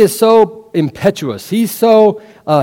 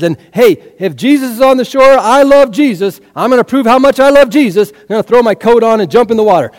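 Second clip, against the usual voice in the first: raised, high-pitched zealous declaration; fervent preaching; 4 semitones higher, 4 dB louder than usual. Real, not acted. Preaches as eager Peter.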